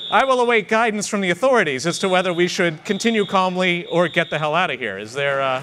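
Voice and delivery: talking over a fire alarm. Real, not acted. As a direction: speak over a blaring alarm. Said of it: "the fire alarm is going off".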